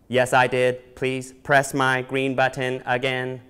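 slow, deadpan robot voice. Acted. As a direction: answer like a plain-spoken robot. Robot answers and asks.

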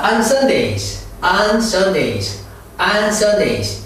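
very slow, spelled-out on Sundays; 천천히 따라 읽기; slow drill. Shown as a demonstration. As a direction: model it slowly for the class to repeat. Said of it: "한번 따라해요".

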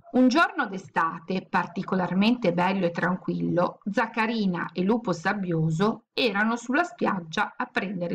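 put-on reading a picture book aloud to children, lively; a children's storyteller voice, bright and animated; teacher reading the class a chapter; story reading. A narrator's reading.

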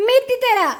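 put-on high baby talk. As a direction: coax in a high babyish voice. Baby talk promising sweet.

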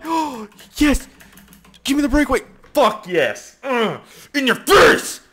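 high, loud victory shouts; shrieking celebration; triumphant yelling. Real, not acted. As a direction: gloat as loud as you can. Celebrating a breakaway goal.

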